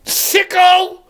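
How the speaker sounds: high squealing Grinch cry. Retold or imitated. Vlogger quoting the Grinch scolding Max, in a high shriek. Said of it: "he goes".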